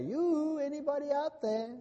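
high, sing-song call into the void; mock the searching skeptics; mock call into space. Mocking mankind calling into space.

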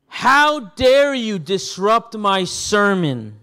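loud, drawn-out indignation; hammed-up outrage, each word stretched; mock anger. Preacher jokingly misquotes Jesus scolding the interrupters, in mock anger. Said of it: "angry at their disturbance".

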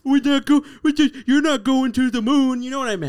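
high, loud flustered outburst; exasperated shout. Real, not acted. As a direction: yell it, flustered. Flustered yelling at partner.

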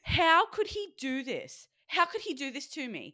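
high, loud mock outrage, stretched out on the repeated question; outraged. Bodybuilder reliving partner bringing forbidden food, outraged. Retelling outrage over bag of candy.

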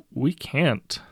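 high, loud desperate plea; acted first mate's desperation. A narrator's reading. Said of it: "the first mate says desperately".

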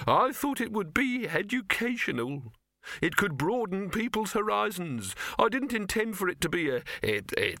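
high, doleful voice, stumbling at the end; morose Silverfish. A narrator's reading. Silverfish lamenting his failed educational hopes, high and morose. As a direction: wail mournfully about lost ideals. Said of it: "said Silverfish morosely".

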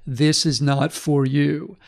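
slow, deliberate self-parody; slow, patronizing pronouncement; mock condescension. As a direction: lay it down slowly like a know-it-all. Mocking his own know-it-all stance.

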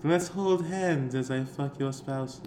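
slow, soft cult leader; sing-song cult voice. Pretend. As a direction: gently lull the followers. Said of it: "a little sing-songy".

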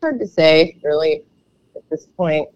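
hoarse, froggy voice from a stuffy throat; a little croaky and rough. Real, not acted. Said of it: "froggy sounding".

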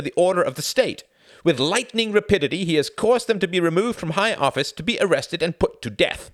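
high, loud, fast proclamation reading; newspaper read aloud. Acted. Tom reading the Daily Mail article aloud, loud and high. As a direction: read it out like a ringing state announcement.

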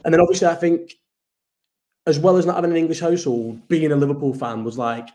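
muffled, like talking underwater; bad connection, warbling audio. Real, not acted. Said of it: "it sounds a bit like you're underwater".

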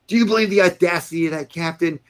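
high-pitched mock outrage; retold indignation. Steaming general to his lieutenant colonel, retold indignation. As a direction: imitate a boss steaming at a junior's nerve. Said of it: "I was steaming when he left".

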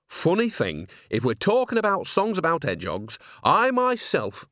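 put-on an old woman winding up a story; chatty old nanny. Nanny tries to chip in.

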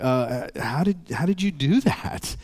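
stammering, baffled father; acted stunned bewilderment; shocked dad. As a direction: trail upward in slow, high-pitched disbelief. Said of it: "he's kinda shocked".

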